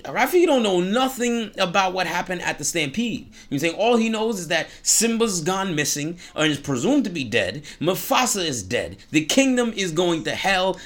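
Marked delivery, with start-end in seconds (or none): none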